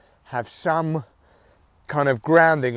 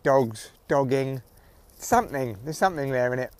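muffled headphone mic; recorded through headphones; headphones used as mic; 4 dB quieter than usual. Real, not acted. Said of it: "I am recording through headphones and the mic's kind of almost on my neck".

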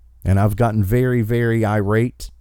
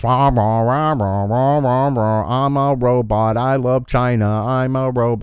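droning mock robot voice, lightly done; a monotone drone, like the teacher in Peanuts; Charlie Brown's teacher. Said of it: "sounds like Charlie Brown's teacher".

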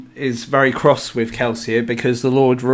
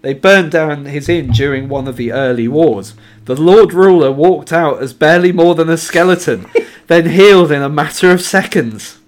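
emphatic, raised-voice reading; book quote read aloud; 3 semitones higher, 6 dB louder than usual. A narrator's reading. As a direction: read the passage with dramatic weight.

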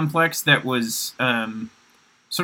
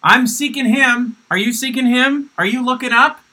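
high eager preachy voice; Weird Steve voice; 9 semitones higher, 3 dB louder than usual. Retold or imitated. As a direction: play him as a high, earnest evangelist. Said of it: "and I would go".

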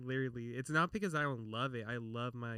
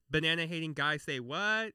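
louder, lightly mimicked TV catchphrase; catchphrase imitation; 3 semitones higher, 5 dB louder than usual. Quoting a Hannah Montana line to friends, catchphrase imitation. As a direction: toss it out as a borrowed catchphrase. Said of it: "you know, her catchphrase".

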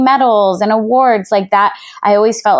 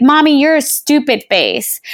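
put-on high, childlike taunt; imitating her daughter; 7 semitones higher than usual. Preschool daughter teasing her mother, high childish voice. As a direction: play the little girl testing a rude word. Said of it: "she'll be like".

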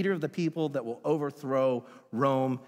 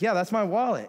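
excited; 7 semitones higher, 5 dB louder than usual. Retold or imitated. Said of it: "It's like".

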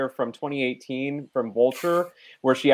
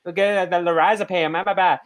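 mock Boston accent. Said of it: "when she slurs her R's and says".

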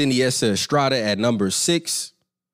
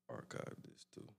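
whispered aside; 31 dB quieter than usual. Real, not acted. Muttering to himself.

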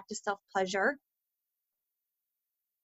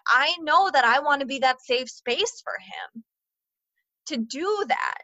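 sudden breathy whisper; 4 semitones higher than usual. Real, not acted. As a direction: drop into a whisper of resolve.

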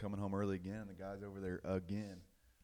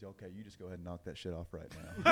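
stern scolding. Acted. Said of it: "that Catholic priest says".

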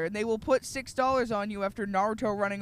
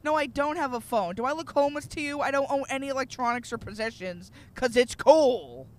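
smug hipster; 3 semitones higher than usual. Retold or imitated. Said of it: "he's like".

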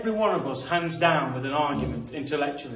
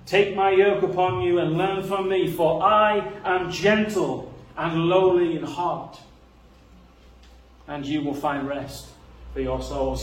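ringing, louder recitation of the words of Jesus; declaiming scripture; 5 dB louder than usual. Acted. Preacher booming out Jesus' invitation to the weary. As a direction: proclaim it like scripture read aloud. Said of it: "he's the only person who can turn around and say".

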